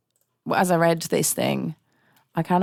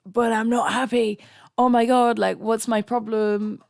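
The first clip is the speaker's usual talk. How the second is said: mocking own whiny voice; 5 semitones higher than usual. Mock quote of her own thoughts.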